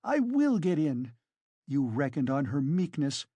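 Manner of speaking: high-pitched, agitated woman; indignant, overwrought challenge; frenzied tirade. A narrator's reading. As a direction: rail at the accusers in defiant outrage. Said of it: "in a frenzy".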